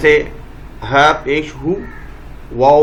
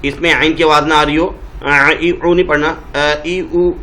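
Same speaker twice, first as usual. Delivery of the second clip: ordinary talk, nothing marked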